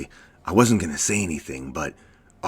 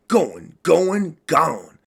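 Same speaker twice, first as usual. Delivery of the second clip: louder and higher, sing-song taunt; mocking exit; 9 semitones higher, 5 dB louder, much slower than usual. Leaving the thinking to the others, a loud sing-song taunt. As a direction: announce your exit like an auctioneer. Storming out of the talk.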